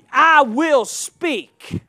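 slow, drawn-out declaration; emphatic declaration. Acted. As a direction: stretch out each word firmly. Preacher declares emphatically, slowly.

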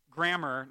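"Grammar" said distinctly, ending in -mar; careful pronunciation. Shown as a demonstration. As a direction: make "Grammar" clearly not "grandma". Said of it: "not grandma".

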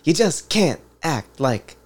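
lightly attempted halting impression; choppy, oddly paused movie-star imitation; Christopher Walken. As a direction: try a celebrity's odd phrasing, not quite landing it. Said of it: "can't even do a Christopher Walken accent".

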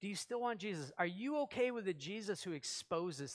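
a hushed invitation to reflect; quiet reflective question. Real, not acted. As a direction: ask it softly, inwardly. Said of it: "Keep this inside".

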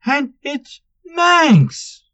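loud, high, exasperated rant; angry outburst. A narrator's reading. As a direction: vent all the frustration. Manx exploding at the teasing.

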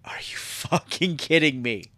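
whispered disbelief, breathless and hushed; stunned whisper. Retold or imitated. Worker recalling HR's excuse, whispering in disbelief. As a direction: hiss it under your breath as if you can't believe it.

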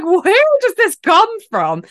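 high, slow, hammed-up bafflement; mock puzzled. Friend mocking the accent slip, high mock puzzlement. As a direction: squeal it out in mock confusion. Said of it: "And I'm like".

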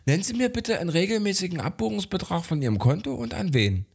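a hint of a polite bank clerk; mock bank agent. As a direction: play the fussy hotline agent. Bank agent voiced in story.

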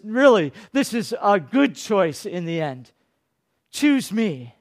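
a persuasive tempter's murmur in the ear; lightly voiced Satan talking you into it; sly Satan leaning close, inviting; Satan coaxing. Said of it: "puts his arm around you and says".

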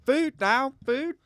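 high, loud demanding barks of words; a greedy dog yelling for food; hammed-up hungry dog; excited dog voice. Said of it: "'Cause they'd be like".

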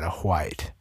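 "white" pronounced hwite, with an audible h first; exaggerated WH. Shown as a demonstration. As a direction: puff an h into the start of "white". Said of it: "I have to say it like that".

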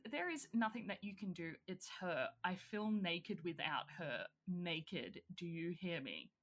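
quiet, brooding lover's lament. Retold or imitated. Retelling a brooding cult leader to Mother Marlene, quiet and heavy. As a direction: mope over the lost girl, voice sinking. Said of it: "And he says".

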